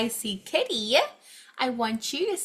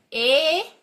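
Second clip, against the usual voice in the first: "it's" drawn out slowly; long slow "it's"; stretched long; 6 semitones higher, 7 dB louder than usual. Shown as a demonstration. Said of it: "we're gonna make it long".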